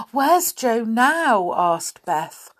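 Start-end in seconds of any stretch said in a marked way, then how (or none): 0.1-1.5 shocked. Acted. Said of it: "quite pale with shock".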